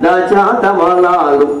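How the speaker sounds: put-on child's lisping speech. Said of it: "చిన్నపిల్లల మాటలు".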